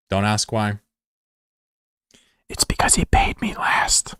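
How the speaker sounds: whispered aside, breathy and secretive; joking whisper. Acted. Streamer confides to chat why he's favoured, whispering. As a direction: let chat in on the joke in a whisper.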